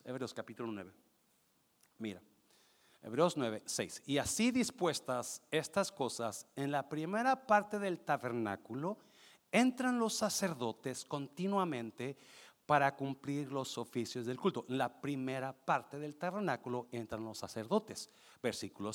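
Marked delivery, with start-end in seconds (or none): 4.0-14.6 scripture reading. Real, not acted. Reads scripture aloud.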